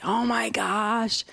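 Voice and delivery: horrified, whispery mock freak-out; imitated panic. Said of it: "she lost her mind".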